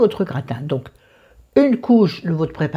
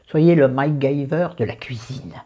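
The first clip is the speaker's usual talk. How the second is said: put-on southern French accent. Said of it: "je prends l'accent du Sud".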